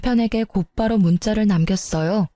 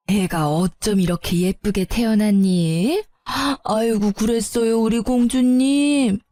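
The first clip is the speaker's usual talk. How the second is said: a hint of an old grandma melting over her granddaughter; doting grandma. Mother-in-law doting on baby. (갓난 손녀에게 살짝 느리게 어르는 할머니 목소리)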